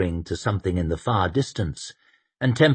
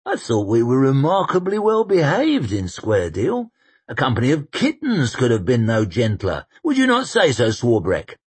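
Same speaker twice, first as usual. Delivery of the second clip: grand general voice; 5 semitones higher, 4 dB louder than usual. Acted. Koska voiced.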